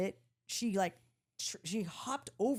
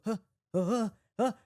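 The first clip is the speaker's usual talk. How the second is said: startled gasps; faster than usual. Retold or imitated. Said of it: "like, you're with your hands".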